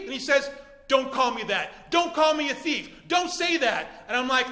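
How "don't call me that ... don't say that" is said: offended. Acted. Thief objects in acted quarrel.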